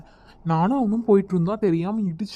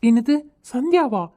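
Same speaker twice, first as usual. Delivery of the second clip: louder, excited perk-up at her name; suddenly keen to hear about the girl; eager surprise; 4 semitones higher, 5 dB louder than usual. Acted. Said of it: "இதை மட்டும் நல்லா வக்கனையா கேளு".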